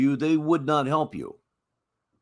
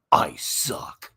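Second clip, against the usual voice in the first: whispered; 6 semitones lower than usual. Retold or imitated. Host acts out caller's words.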